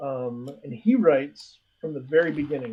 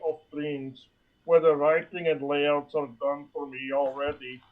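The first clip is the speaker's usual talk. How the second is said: impression of the host; 4 dB louder than usual. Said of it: "That was just uncanny".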